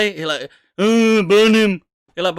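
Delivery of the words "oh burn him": loud, high, drawn-out mock tantrum; slow, hammed-up angry outburst. God as a tantrum-throwing four-year-old, mock angry. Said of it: "He's just angry".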